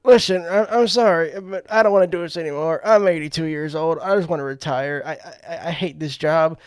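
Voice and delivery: pleading Biden. Retold or imitated. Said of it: "he does that".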